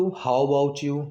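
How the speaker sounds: very slow, stretched how about you; slow teaching example; slow alternative. Shown as a demonstration. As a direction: draw the phrase out slowly. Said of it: "ये भी बहुत common है".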